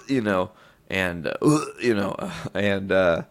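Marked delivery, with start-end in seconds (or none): 1.4-1.7 imitated retching. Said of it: "violently projectile vomiting".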